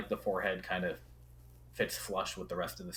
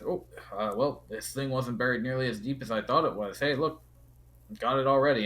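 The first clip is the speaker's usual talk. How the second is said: Kuromizawa's voice; 5 semitones higher, 8 dB louder, faster than usual. Acted. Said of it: "And he says".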